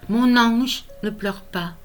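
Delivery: lyrical recital, line endings left to fall away; tender, measured poetry recitation; poem reading. Acted. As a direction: comfort a small child through verse, pausing between phrases. Recites consoling poem to grandson.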